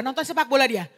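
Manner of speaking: ordinary talk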